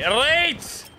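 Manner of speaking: high, drawn-out bad Scottish accent; poor Scottish accent. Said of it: "I don't think that was a very good Scottish".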